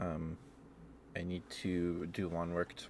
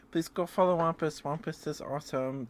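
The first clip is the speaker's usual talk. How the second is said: excited plug; 6 semitones higher, 4 dB louder than usual. Real, not acted. Shouting out a fellow streamer.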